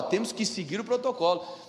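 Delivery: mouth-filling pronouncement, mildly pompous; measured, official-sounding declaration; self-important. Retold or imitated. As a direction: state the rule with understated self-importance. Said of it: "enchi a boca pra falar".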